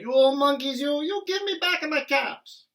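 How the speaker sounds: loud, high angry shout. Acted. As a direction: really let the monkeys have it. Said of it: "This made the peddler angry".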